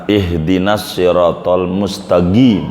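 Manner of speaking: "mustaqim" with the qaf said as a hard g, "mustagim"; qaf as gaf. Shown as a demonstration. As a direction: read "mustaqim" turning q into g. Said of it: "Kalau qaf jadi gaf". ("mustaqim" dibaca "mustagim", qaf jadi g)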